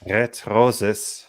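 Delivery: "Red roses" in a heavy German accent; German-accented "Red roses", crisp final consonants; full German accent. Shown as a demonstration. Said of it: "I go full German".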